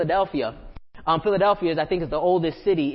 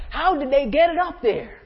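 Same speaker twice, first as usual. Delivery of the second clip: higher, amazed "how did they" question; awed question; 8 semitones higher than usual. Retold or imitated. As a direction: marvel at the stones like a disciple. Disciples marvel at temple stones.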